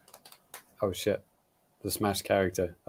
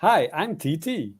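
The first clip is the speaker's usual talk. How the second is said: silly character voice; 6 semitones higher than usual. Pretend. Silly put-on character intro.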